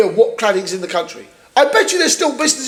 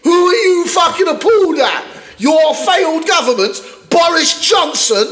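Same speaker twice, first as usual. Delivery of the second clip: angry laughing rant; 7 semitones higher than usual. Real, not acted. Mocking the failed Tory government, laughing angry shout. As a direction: laugh in disbelief as you rage.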